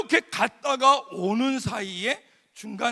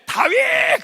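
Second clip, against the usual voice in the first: put-on high excited shout of a crowd of kids; 8 dB louder, much slower than usual. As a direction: shout the name out like eager teens. Kids shouting answer, retold. (아이들이 외치듯 높게 외치는 소리)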